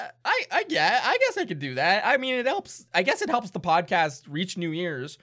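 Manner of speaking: lightly voiced hesitant toff; reluctant gentleman. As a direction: humour the orphan grudgingly.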